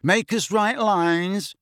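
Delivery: high, drawn-out taunt; slow, mocking challenge; smirking George. A narrator's reading. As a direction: tease with a smirk in the voice.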